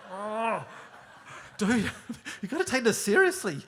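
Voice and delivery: loud, high, laughing through it; can't keep a straight face; laughing plea. Real, not acted. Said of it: "I'm going".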